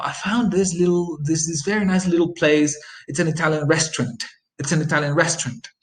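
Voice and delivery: easy and casual, restaurant as restrant; relaxed natural speech. Shown as a demonstration. Teacher demonstrating fluent speech, relaxed and natural. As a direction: chat it out naturally. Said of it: "you could say again".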